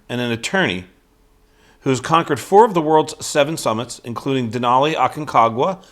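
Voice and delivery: loud, punched-up introduction read; bio read. Real, not acted. Host reading the guest's bio to viewers, emphatic bio read. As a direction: read out credentials with emphatic stress.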